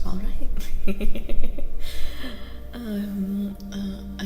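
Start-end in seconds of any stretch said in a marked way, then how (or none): 1.7-2.7 short breathy giggle; quick amused chuckle. Real, not acted. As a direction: laugh lightly to yourself. Amused after reading the offer.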